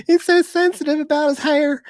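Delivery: high-pitched, squeezed through laughter; laughing. Real, not acted. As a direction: barely get it out for laughing. Laughing while teasing about hair.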